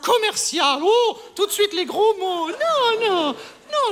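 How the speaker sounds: scandalised, rising protest; mock outrage. Landlady objecting to the word commercial, scandalised. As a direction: protest loudly as if insulted. Offended at being called commercial.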